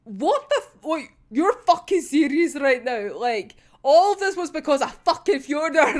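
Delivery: incredulous, mildly angry outburst; a touch of acted outrage; pissed off. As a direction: act out pissed-off disbelief. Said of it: "he just looks so fucking pissed".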